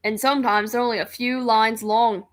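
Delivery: put-on British accent that comes out Australian; lightly put-on British, sliding into Australian; attempted British accent. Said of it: "can't do a British accent without sounding like an Australian".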